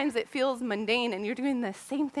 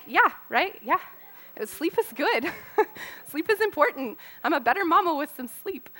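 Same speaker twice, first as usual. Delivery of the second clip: relieved laughter; 5 semitones higher than usual. Retold or imitated. Relieved laughing after sleep.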